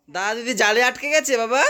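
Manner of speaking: ordinary talk, nothing marked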